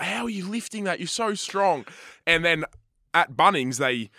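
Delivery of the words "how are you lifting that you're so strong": higher, gushing mum voice; mock motherly amazement; hyping mum. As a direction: imitate an admiring mum. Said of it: "my mum would be like".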